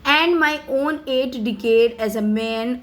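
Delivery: slow, careful read of a speech text; slow reading aloud. Acted. Teacher reading Mandela's speech to students, slow and careful. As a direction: read each English word slowly for the class.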